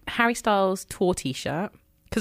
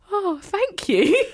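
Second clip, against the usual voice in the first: slow, high thanks through a laugh; amused imitation; 12 semitones higher, much slower than usual. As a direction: say it slowly, laughing lightly. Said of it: "To which he went".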